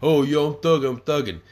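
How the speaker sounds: lightly voiced mock thug boast; mocking a rap duo. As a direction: parody a wannabe gangster bragging. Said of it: "they run around with their fucking money and they".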